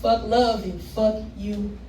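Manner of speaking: rhythmic poem delivery with rising punchlines; spoken word performance. Acted. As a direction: perform it like slam poetry.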